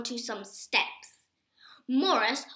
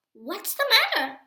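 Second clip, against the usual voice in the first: raised, surprised "what's the matter"; puzzled question; 9 semitones higher, 5 dB louder than usual. A narrator's reading. Morris asking Jack why Buddy stopped, puzzled. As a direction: ask it startled and unsure.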